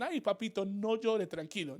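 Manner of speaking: gentle there-there coo, mildly voiced; soothing a crying child. A touch of a parent calming a crying child. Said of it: "como cuando nuestros hijos lloran".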